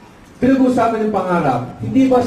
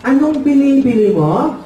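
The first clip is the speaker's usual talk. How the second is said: lightly voiced father, pitched up; puzzled father; 4 semitones higher than usual. Father questioning the customer, puzzled. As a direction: ask higher as the puzzled storekeeper. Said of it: "Sabi ng tatay".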